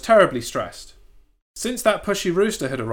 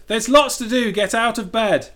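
bossy rooster; 7 semitones higher, 4 dB louder than usual. Acted. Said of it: "that rooster said".

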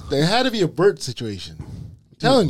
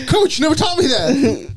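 higher, wounded complaint; whiny runner; 8 semitones higher than usual. Retold or imitated. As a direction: plead with the coach.

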